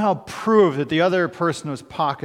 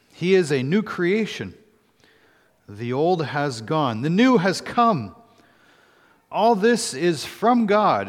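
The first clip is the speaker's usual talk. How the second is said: measured, deliberate Bible reading; solemn public reading of a holy text; scripture reading. Acted. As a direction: read scripture aloud, phrase by phrase, with pauses. Reads scripture aloud to congregation.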